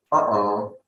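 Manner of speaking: "Uh-oh" split by a throat catch; glottal stop. Shown as a demonstration. Teacher repeats practice word, "Uh-oh" with glottal stoppage. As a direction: close the throat between the halves of "Uh-oh". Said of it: "So there is one is stoppage".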